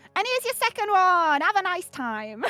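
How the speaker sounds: British street-talk accent. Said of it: "another in street speak British".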